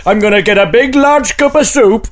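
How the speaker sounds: rough attempt at a Welsh lilt; comic, slipping Welsh accent. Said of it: "It's a Welsh accent".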